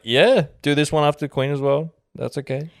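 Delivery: colonial settlers. Retold or imitated. Settlers naming places.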